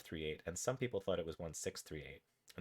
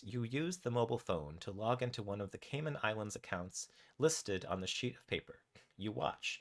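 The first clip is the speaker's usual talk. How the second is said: measured, animated game narration; story narration. A narrator's reading. Narrator tells players what their raccoon does, story narration. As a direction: read the adventure out with deliberate pauses. Reads interactive story aloud.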